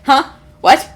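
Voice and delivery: acted confused panic with a touch of laughter; bewildered, flustered little questions; panicked elf. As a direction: flounder in mock panic. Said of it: "elf looking around panic".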